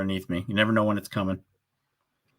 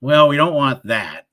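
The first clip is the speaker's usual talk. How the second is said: mock concern; 5 semitones higher, 8 dB louder, slower than usual. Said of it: "And I'm like".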